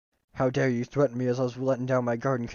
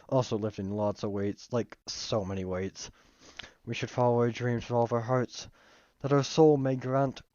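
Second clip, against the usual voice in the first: put-on Southern accent. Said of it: "My accents are actual trash".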